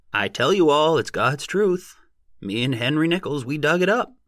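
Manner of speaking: high, loud crowd-rousing holler; excited shouting. A narrator's reading. Odd-job man telling a crowd of his find, excited shouting. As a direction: shout it out, voice climbing to a squeal. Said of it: "who shouted and waved his hands and pranced".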